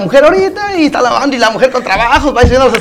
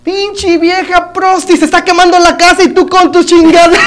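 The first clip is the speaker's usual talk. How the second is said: acted scolding; 5 semitones higher than usual. Husband berates his wife as house burns, comic scolding. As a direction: scold her in raised pitch for the punchline.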